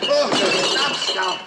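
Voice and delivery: high pained cry; captain howling over his hurt hand; yelping in pain. Acted. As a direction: yelp as the hand is crushed.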